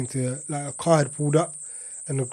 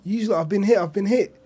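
high, alarmed call to friends; panicked cry; 6 semitones higher than usual. Retold or imitated. Speaker telling friends he's been hit, high alarmed call. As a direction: call out in shock, pitched up. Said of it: "I was just like".

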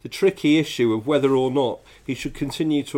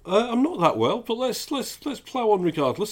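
man flu; 2 semitones higher than usual. Real, not acted. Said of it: "moaning about my man flu".

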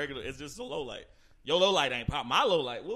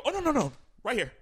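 higher, quick reassuring white voice; Aaron; 4 semitones higher than usual. Retold or imitated. Imitating Aaron offering a seat, white voice. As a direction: imitate a white guy politely fussing. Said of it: "Aaron go".

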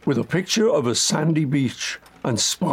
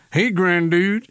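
over the top; 5 semitones higher, slower than usual. Shown as a demonstration. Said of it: "I'm way over the top".

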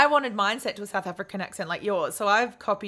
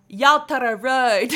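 slow, louder mock South African accent; 6 dB louder, slower than usual. Asking Siri for directions, hammed South African accent. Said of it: "you have to speak in a South African accent".

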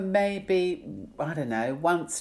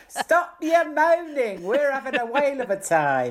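goose voice; 9 semitones higher than usual. Pretend. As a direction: drag it out like a bossy goose. Continues goose voice.

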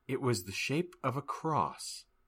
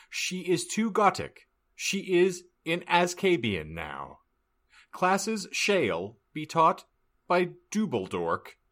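higher-pitched sing-out reading; theatrical proclamation; 9 semitones higher than usual. Acted. Narrator reading out a school notice, high proclamation. Sign read aloud theatrically.

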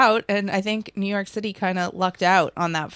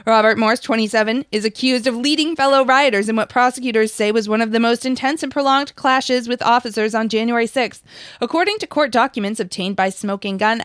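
brisk news read, slightly louder; investigative news exposé; 2 semitones higher, 3 dB louder than usual. Acted. Reads out news article.

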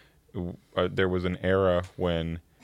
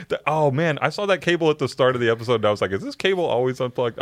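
giggly; 5 semitones higher than usual. Real, not acted. Still laughing at producer.

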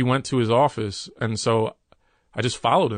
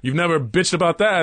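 higher-pitched mock impression in an argument; retold comedian's impression; 6 semitones higher, 3 dB louder than usual. Comedian retelling his boss arguing through impressions, mock impression. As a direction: lightly imitate someone arguing in a put-on voice. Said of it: "he starts doing an impression".

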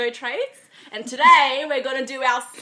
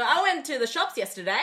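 rising upspeak at the end of "yesterday"; questioning inflection; 3 semitones higher than usual. Shown as a demonstration. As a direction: turn the statement into a question by lifting "yesterday". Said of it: "adding inflection to the end of every sentence".

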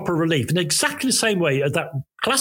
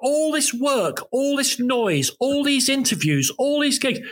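exasperated; 8 semitones higher than usual. Retold or imitated. Exasperated inner thought, retold.

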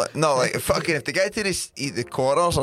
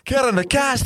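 very high put-on Scottish accent; squeaky-high exaggerated Scots; Andy Robertson impression; 11 semitones higher, 4 dB louder than usual. Footballer naming the podcast host, high Scottish accent. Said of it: "I'll talk in that accent".

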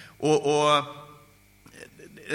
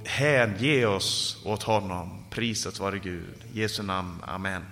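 lowered, softening prayer voice; winding down into reverent prayer; closing prayer; 5 semitones lower than usual. Real, not acted. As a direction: let the preaching settle gradually into a hushed amen. Preacher eases from sermon into closing prayer.

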